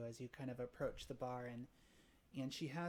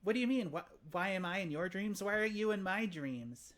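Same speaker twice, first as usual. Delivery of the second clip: high, loud, startled questions; 6 semitones higher, 7 dB louder than usual. Acted. Innkeeper grabbed by a stranger, startled and higher. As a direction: blurt it out, caught off guard. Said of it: "she looks startled".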